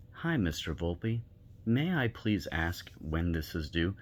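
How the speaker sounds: slow, courteous and respectful; polite request. Shown as a demonstration. Teacher showing students how to politely email, slow and courteous. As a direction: ask nicely, like a well-mannered student. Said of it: "It's what I did with my teachers".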